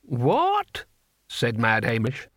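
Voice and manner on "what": put-on deaf old man. A narrator's reading. Old deaf barbarian keeps asking.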